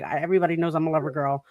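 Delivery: ordinary talk, nothing marked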